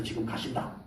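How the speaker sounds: hushed warning. Retold or imitated. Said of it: "보좌관한테서".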